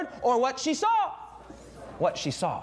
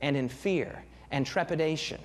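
grave; 6 semitones lower than usual. Real, not acted. Grave imagined rejection by son.

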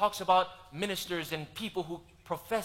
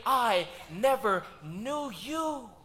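solemn slow verdict; 3 semitones higher, much slower than usual. Retold or imitated. Christ answering the false believers.

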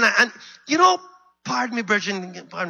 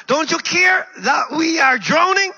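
high, desperate shouted plea; alarmed cry for help; panicked shout; 7 semitones higher, 3 dB louder than usual. Acted. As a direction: shout it as a drowning disciple. Disciples shaking Jesus awake.

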